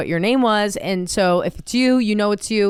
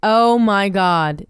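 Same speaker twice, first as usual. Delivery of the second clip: slow, louder shocked oh my God; stunned by the picture; 5 dB louder, much slower than usual. Real, not acted. Reacting to creepy photo.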